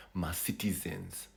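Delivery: Ma Citizens, slow, the Shona way; Ma Citizens in a Shona accent. Shown as a demonstration. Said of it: "the citizens in a Shona accent".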